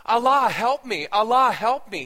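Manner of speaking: loud, choking plea to Allah, high and strained; desperate cry for help. Retold or imitated. Aishin, choked in his jail cell, cries out to Allah loudly. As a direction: cry out as if being strangled. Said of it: "he cried out over and again".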